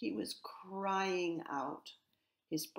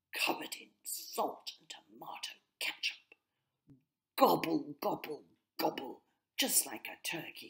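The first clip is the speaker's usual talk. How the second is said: mocking rook. A narrator's reading. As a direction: tease the brother like a turkey. Reggie mocks his brother's eating.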